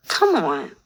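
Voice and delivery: sheepish little coaxing plea; cajoling after going too far. A narrator's reading. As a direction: coax him, half apologising. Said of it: "I look at him sheepishly".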